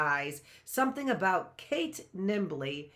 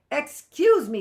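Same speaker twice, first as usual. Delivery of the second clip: laughing; 8 semitones higher, 11 dB louder than usual. Acted. Frank breathless from laughing.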